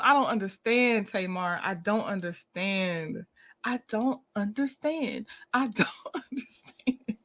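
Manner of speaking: soft, trailing disbelief that breaks into a laugh; baffled. Real, not acted. Reacting to Tamar's reunion news, soft baffled disbelief. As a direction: repeat it quietly like you give up.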